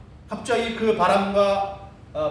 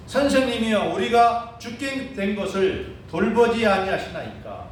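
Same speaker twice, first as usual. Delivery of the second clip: mild imitated protest, slightly raised; shouting, retold; 3 semitones higher than usual. Disciples appealing to sleeping Jesus, mild mock shout. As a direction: complain aloud as the disciples, not at full shout. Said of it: "이렇게 막 소리를 지르는 겁니다".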